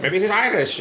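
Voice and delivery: high-pitched imitation of a curious onlooker; puzzled stranger. Voices puzzled strangers guessing his origin.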